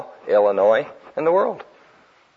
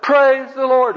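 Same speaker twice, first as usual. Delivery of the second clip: high, forceful praise shout; louder retold holler; 13 semitones higher, 4 dB louder, slower than usual. Hippie praising God over the drowned Egyptian army, hollering louder. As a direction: holler it higher and harder, less drawn out. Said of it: "the guy hollered".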